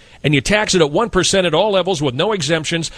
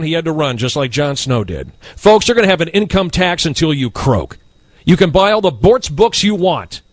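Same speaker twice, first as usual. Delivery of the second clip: ordinary talk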